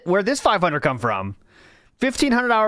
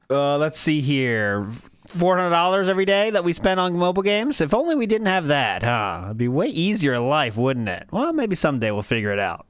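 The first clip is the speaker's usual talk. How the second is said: mock wistful; 3 semitones lower than usual. Mock wistful musing on game spending.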